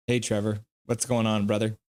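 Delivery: a hint of a laid-back buddy voice; lightly voiced Trevor. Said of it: "You want Trevor Linden?".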